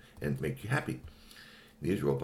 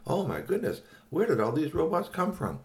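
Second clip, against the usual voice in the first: surprised; 10 semitones higher than usual. Acted. Character exclaims in surprise.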